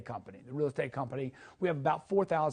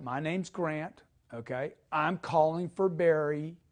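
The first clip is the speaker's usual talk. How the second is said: slow demo; 2 semitones lower, slower than usual. Shown as a demonstration. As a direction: say it calmly, unhurried. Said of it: "Know why you're calling".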